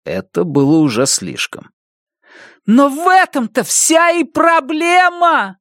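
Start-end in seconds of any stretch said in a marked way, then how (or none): 2.7-5.6 put-on boy yelling, covering his ears. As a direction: scream it, hands over ears. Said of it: "заорал Бенни".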